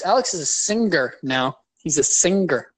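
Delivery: "singer" with a hard g sounded after the ng. Shown as a demonstration. Teasing Alex about being a singer, hard G. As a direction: say "singer" as sing-ger, on purpose. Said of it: "Why do you say it like that?".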